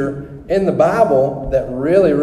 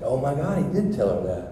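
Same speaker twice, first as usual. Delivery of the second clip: retold awed realization; 5 dB quieter than usual. Healed man realizing the Bible link, quietly awed.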